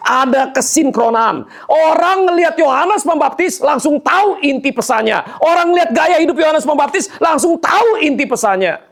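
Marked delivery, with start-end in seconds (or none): 5.4-8.9 forceful repeat. Shown as a demonstration. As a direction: build it into a preaching shout. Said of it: "repeated with force". (diulang dengan suara lantang berkhotbah)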